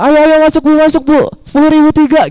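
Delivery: high, loud hawker's sales call; shouting shop promoter. Retold or imitated. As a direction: shout to pull shoppers into the store. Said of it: "Itu kan mereka teriak-teriak".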